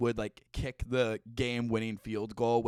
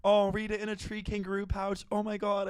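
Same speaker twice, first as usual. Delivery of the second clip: cooing over cute animals; 6 semitones higher than usual. Real, not acted. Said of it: "I'm gonna cry".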